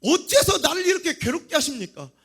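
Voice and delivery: burdened, pleading complaint; anguished plea. Acted. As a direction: demand an answer from God. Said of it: "모세가 힘들었으면".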